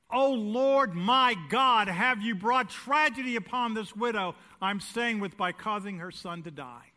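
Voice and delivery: a hint of loud pleading; Elijah's pleading prayer. Preacher voicing Elijah over the dead boy, a touch pleading. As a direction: plead with God, starting loud.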